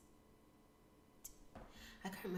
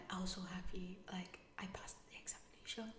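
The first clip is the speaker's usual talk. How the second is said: soft, overwhelmed whisper; awed whisper; 6 dB quieter than usual. Real, not acted. Telling viewers she passed, an awed whisper. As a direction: whisper it as if you still can't believe it.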